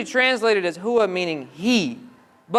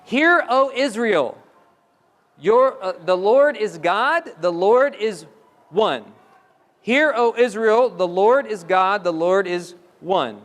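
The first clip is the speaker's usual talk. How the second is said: slow emphatic declaration; solemn proclamation; slower than usual. Shown as a demonstration. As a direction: proclaim it deliberately, stressing Lord. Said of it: "which means".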